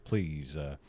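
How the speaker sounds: a hint of a southern drawl; half-hearted southern accent. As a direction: slip into a light southern accent. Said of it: "trying to do my southern accent".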